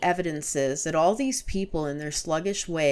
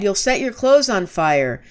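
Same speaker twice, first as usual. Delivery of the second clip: loud, raised warning; alarmed shout; 4 semitones higher, 9 dB louder than usual. A narrator's reading. Narrator warning Gibran about burning trousers, shouting. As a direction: yell a warning at him. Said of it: "I cried".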